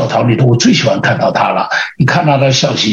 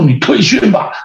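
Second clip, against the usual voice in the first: lightly acted higher-pitched order; a hint of drill leader, pitched up; pressing squad leader; 6 semitones higher than usual. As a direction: push a trainee to give up. Squad leader pressing recruit to quit.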